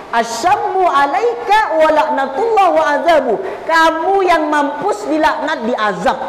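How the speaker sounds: mock angry wife firing back; a hint of an angry wife cursing back; angry retort. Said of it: "yang marah Siti Aisyah".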